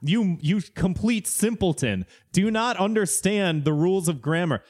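hammed-up know-it-all scolding; mock condescending pedant. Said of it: "people being like".

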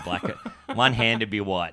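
chuckling through the punchline; giggling at the joke; laughing. Real, not acted. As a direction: laugh while you say it.

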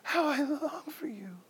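high, breaking wail trailing into whisper; acted audible weeping; weeping out loud. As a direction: cry the words slowly, voice thin and high. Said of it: "He's weeping out loud".

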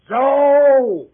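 loud, high call; shouting a name. Acted. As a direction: yell to wake him up. Shouting for the sleeping boy.

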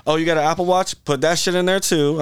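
security guard voice. Retold or imitated. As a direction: bark out orders like stadium security. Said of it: "they're like".

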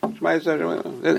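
flat robot-like recitation. Shown as a demonstration. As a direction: rattle it off like a robot. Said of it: "he just said it like a robot".

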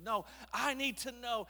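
hammed-up motivational speaker. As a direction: press the crowd for an answer. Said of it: "Moses is going all motivational speaker".

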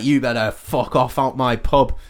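light touch of Cockney; faintly Cockney, a mild telling-off; slight Cockney accent. Acted. Angry darts player ordering a man out of his pub, slight Cockney accent. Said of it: "a slight Cockney accent".

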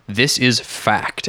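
slow, firm statement of fact; flat statement. Retold or imitated. Host imitating co-host who just says it out, slow firm statement. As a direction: state it slowly, leaving no room for doubt. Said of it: "they just make a statement".

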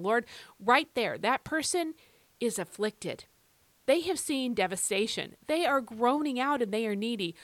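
fervent, pleading prayer; earnest petition with lifted, emphatic phrases; excited prayer. Shown as a demonstration. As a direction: pray it urgently, straight to God. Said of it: "just exactly like that".

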